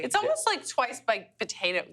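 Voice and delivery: West Virginia twang on "potato"; West Virginia accent. Real, not acted. Cook reacting to the dish, in a West Virginia accent. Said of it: "getting real into my West Virginia".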